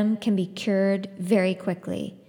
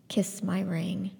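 soft command; 6 dB quieter, slower than usual. Acted. Scythe's calm command to mother.

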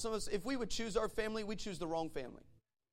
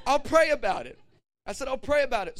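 mock stall; 5 semitones higher, 10 dB louder than usual. Retelling his stalling reply to wife.

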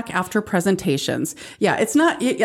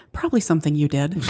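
laughing; faster than usual. Retold or imitated. Dad's punchline to his kid.

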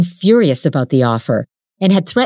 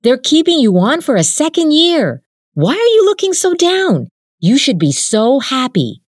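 lightly voiced young man, cheerful; a hint of a buoyant boyfriend, pitched up; Jin's voice; 10 semitones higher than usual. A narrator's reading. Jin urging downcast Suja to feel proud, lightly voiced.

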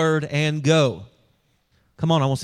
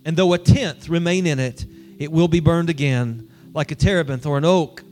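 solemn, measured reading of the text; scripture reading; 3 semitones lower than usual. Acted. Pastor reading scripture to the congregation, solemn and measured. Reads scripture before the sermon.

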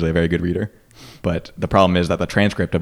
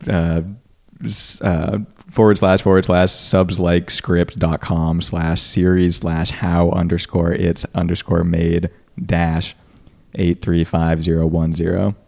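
slow, deliberate spelling out; much slower than usual. Real, not acted. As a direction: spell each part slowly. Spelling a URL.

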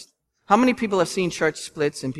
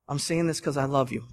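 soft-spoken; 3 semitones lower, 6 dB quieter than usual. Shown as a demonstration. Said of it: "too soft".

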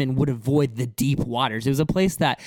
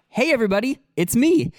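higher, louder, chirpy hello to the group; casual mock greeting; 8 semitones higher, 5 dB louder than usual. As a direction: announce yourself like a pal arriving. Mock casual greeting, contrasted with identity statement.

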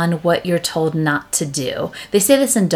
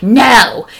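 mock toddler no; 5 semitones higher, 8 dB louder than usual. Toddler refusing.

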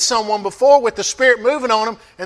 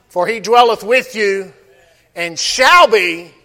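louder, solemn reading of King James verses; scripture reading; 3 dB louder than usual. Acted. Scripture read aloud.

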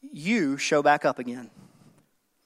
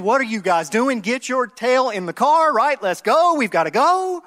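raised, higher mock yell hurrying the kids; 5 semitones higher than usual. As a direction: hurry the kids into the car, voice pushed up high. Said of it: "you start yelling at your kids".

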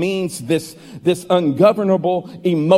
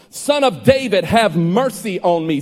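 shouting; 2 semitones higher than usual. Acted. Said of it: "he shouted all the more".

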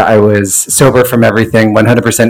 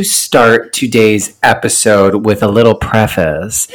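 out of breath after a run; wheezing, catching breath between words; wheezy voice; slower than usual. Real, not acted. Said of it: "oh my God, I'm wheezing".

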